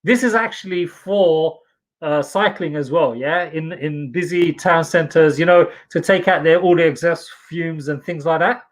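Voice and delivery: speaking through a nose clip; pinched nose, strangled-sounding. Real, not acted. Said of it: "why do you sound as if you're being strangled".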